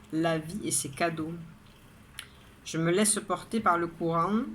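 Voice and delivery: measured poetry reading, line by line; poem recitation. Acted. Poet reading her daily poem to viewers, measured recitation. Reads the poem a second time.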